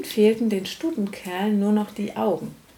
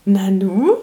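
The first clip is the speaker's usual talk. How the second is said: laughing; 7 dB louder than usual. Real, not acted. Laughing while repeating with child.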